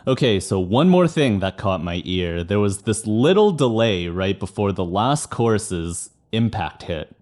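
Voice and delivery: normal talking voice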